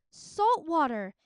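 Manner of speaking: loud, slow shocked cry; surprised exclaim. Acted. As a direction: spit it out in disgust. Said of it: "Minli exclaimed".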